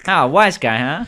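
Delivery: high, loud mock gangster voice; nineteen-twenties gangster. Game master riffs on the gangster remark, mock gangster. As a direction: needle them like an old-time mobster. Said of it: "like a nineteen twenties gangster".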